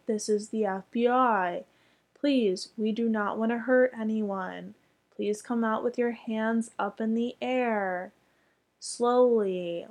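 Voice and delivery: measured, courteous mock loudspeaker address; politely instruct, spacing out the phrases; polite FBI announcement. Imitating real agents asking neighbours to surrender, polite and measured. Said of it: "very polite".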